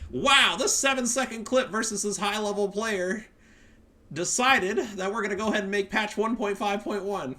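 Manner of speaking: mock whiny player. Mocking high-level player's complaint.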